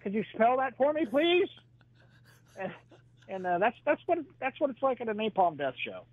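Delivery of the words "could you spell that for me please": much higher, mock bewildered friend; buddy Dave. Buddy Dave at the show asking to spell the title, baffled and high. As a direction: ask it high and baffled, a bit louder. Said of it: "he's like".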